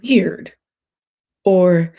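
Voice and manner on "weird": whisper. Real, not acted. Aside to viewers after rant.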